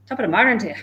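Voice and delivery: put-on amateur Irish accent; half-hearted put-on Irish brogue. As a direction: have a rough go at an Irish lilt. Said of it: "I'm not very good at Irish accents".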